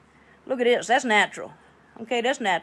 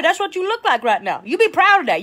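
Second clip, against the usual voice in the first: normal talking voice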